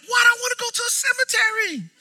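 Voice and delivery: laughing confusion. Retold or imitated. Telling people seminary sounded like cemetery, laughing shout. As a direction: laugh it out, playing dumb.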